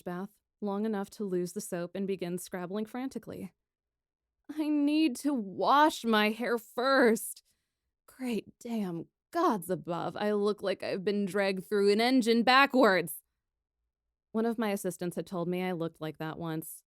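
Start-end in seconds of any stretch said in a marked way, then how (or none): 4.6-13.1 loud, slow frazzled outburst; flustered young princess exclaiming; frantic. Acted. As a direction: burst out in a panic over the hair.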